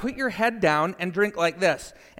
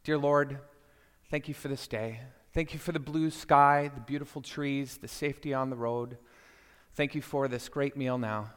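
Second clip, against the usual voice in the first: quiet, measured mealtime prayer; softly retold table grace; saying grace; 2 semitones lower, 4 dB quieter than usual. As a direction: pray simply, phrase by phrase. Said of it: "prayed for us".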